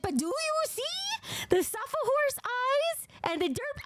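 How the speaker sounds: very high, gushing delight; excited squeal. Real, not acted. Streamer shows viewers the derpy eyes, squealing with excitement. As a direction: squeal with cuteness overload.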